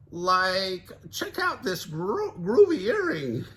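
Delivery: high goofy Shaggy; laid-back find. Acted. Shaggy voiced.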